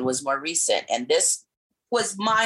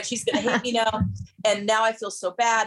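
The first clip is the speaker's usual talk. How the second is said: guilty inner voice; 8 semitones higher than usual. Retold or imitated.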